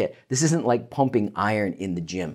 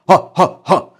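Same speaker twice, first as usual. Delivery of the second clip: louder, higher ha pulses; diaphragm ha; 5 semitones higher, 9 dB louder than usual. Shown as a demonstration. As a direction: punch the ha from the belly. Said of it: "engaging your diaphragm".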